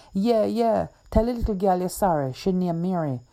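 loud, fast breathless gabble; frantic agreement. Acted. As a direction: say anything to make it stop. Donovan begs while tickled.

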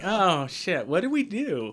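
high, loud panicked oops; mock panic, caught out; panicked writers. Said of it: "They were like".

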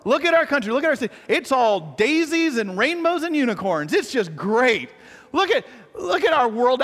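sarcastic starry-eyed cheer; gushing mock wonder; naive optimism. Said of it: "looking at our city and our country".

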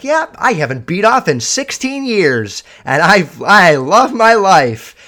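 hammed-up beaming self-help convert; robotically happy guy. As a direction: parody a man who is way too happy. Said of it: "robotically happy".

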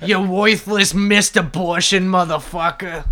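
mom impression. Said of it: "How did you get my mom's accent".

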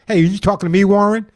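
put-on a light New York accent for a cheeky dog; dog talking back in a hint of New York accent. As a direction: lightly play a New York tough guy. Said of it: "It's my New York accent".

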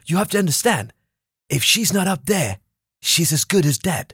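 measured, understated imitation of a manager; calm explanation. Manager explaining her job to the bodyguard, acted calm. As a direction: lay it out with deliberate pauses, unhurried. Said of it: "hela tiden är lugnt".

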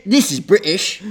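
put-on Cockney British; laughing mock Cockney; Cockney accent. Shown as a demonstration. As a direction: say it like a joking Cockney. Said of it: "It's Cockney".

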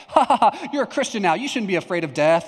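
loud, high scoffing fake laugh, easing off; mock laughing. Imagined pastor mocking a frightened teen, laughing at him. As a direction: imitate someone laughing off a silly fear. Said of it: "he's just gonna, like, laugh at me".

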